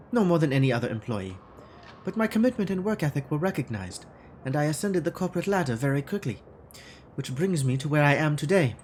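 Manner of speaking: lightly put-on German accent for Frau Mueller; a hint of a stiff German accent, formal and guarded; faux German accent. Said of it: "this awful faux German".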